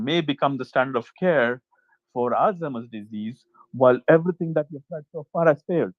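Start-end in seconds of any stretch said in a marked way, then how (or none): 3.7-5.9 muffled, like through a wall. Real, not acted. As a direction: sound muffled and far off. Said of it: "it seems like you sound muffled".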